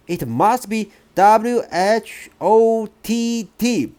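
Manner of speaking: put-on a hopeful child guessing; boy voice.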